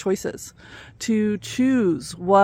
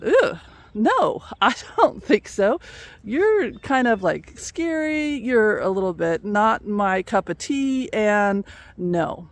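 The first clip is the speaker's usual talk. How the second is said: disgusted refusal. Acted. Frog refuses scorpion, disgusted.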